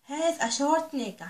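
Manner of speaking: put-on each word drawn out slowly for young learners; slow teaching read. Shown as a demonstration. Teacher reading English slowly to her little pupils. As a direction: read it slow and clear for the children.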